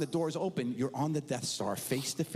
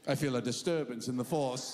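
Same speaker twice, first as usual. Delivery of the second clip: put-on low-key mystical old-man voice; old Grandpa as Yoda; 3 semitones lower than usual. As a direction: intone it like an ageing Jedi master. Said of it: "He's like a real-life Yoda".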